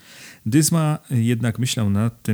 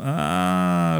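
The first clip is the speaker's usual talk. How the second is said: high, lightly amused exclamation; a hint of laughter in a high-pitched "ah"; laughing count; 9 semitones higher than usual. A narrator's reading. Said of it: "roześmiał się hrabia".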